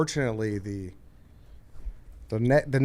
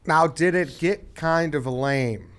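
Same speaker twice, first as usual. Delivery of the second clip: slow, drawn-out question; Chris Farley; much slower than usual. Real, not acted. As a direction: stretch the question out slowly, lightly comic-sounding. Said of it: "You sounded like Chris Farley right there".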